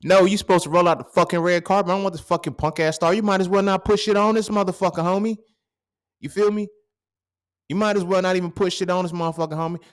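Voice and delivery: loud, high indignant rant over a tiny star; mock outrage. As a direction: rant like a kid cheated out of the red carpet. Acting outraged kid refusing star.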